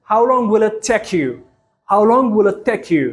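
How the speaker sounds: slow, careful teacher pronunciation; each word laid out for learners to copy; slow model sentence. Shown as a demonstration. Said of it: "ብፕሮናንሴሽን ተጠቒሞም ከመይ ከም ዘንብብዎ". (ቀስ ኢልካ ብጥንቃቐ ምድምጻጽ)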